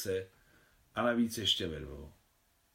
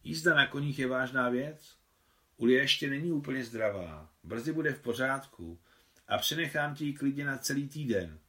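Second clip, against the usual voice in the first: encouraging kind tone; 4 semitones higher than usual. Acted. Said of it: "povzbuzujícím laskavým tónem".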